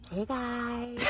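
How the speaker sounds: soft mock vlogger greeting; imitating friend's vlogging. Imitating her friend's video intro, softly mocking. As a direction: put on your friend's vlog voice, quietly. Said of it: "I'm gonna do you so perfectly".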